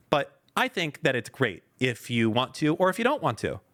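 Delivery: lightly put-on evasive AI assistant; mocking Maya. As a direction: stall and hedge, parodying a careful chatbot. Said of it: "I'm gonna be you".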